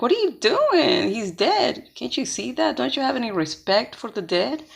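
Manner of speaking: high-pitched opening, mildly scandalized; shocked. Retold or imitated. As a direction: imitate shocked mourners scolding, without shouting. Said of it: "everybody looks at him shocked".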